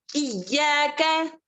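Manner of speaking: slow, drawn-out Quranic recitation of इय्याका; recited slowly. Shown as a demonstration. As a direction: model इय्याका slowly for the class. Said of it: "teacher models recitation".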